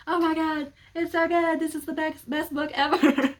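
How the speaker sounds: high, loud fangirl squeal, slowing at the end; gushing excitement. Retold or imitated. Younger self hooked on the book, gushing. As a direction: rave like you just discovered a new favorite.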